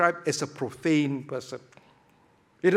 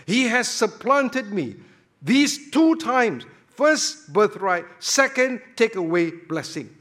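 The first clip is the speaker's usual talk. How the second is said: bitter complaint; 4 semitones higher, 5 dB louder than usual. Acted. Voicing bitter Esau.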